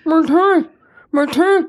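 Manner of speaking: high, loud wailing blubber of my teeth; imitating sobbing husband. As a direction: mimic a man crying too hard to speak. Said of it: "And he's crying".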